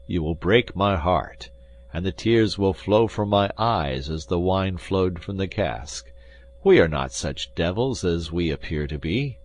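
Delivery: lightly voiced ironic Athos; half-joking heartbreak.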